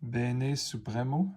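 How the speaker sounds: slow, lightly Italian-accented "Bene Supremo"; Italian accent attempt. Shown as a demonstration. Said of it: "je, mon, mon accent".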